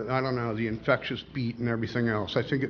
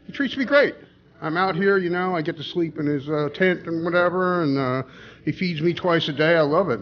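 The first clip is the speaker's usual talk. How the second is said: high cheerful talking-dog voice; 5 semitones higher than usual. Acted. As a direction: pitch way up like a cheerful pet. Joke: the dog talks.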